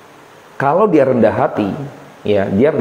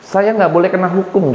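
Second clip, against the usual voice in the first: haughty claim of being the law; mock lawgiver's boast; arrogant decree; 4 semitones higher than usual. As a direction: declare yourself above the law. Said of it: "Mereka bisa".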